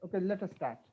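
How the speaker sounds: very faint, distant voice; speaking far too softly to be heard; barely audible. Real, not acted. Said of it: "your voice is very low".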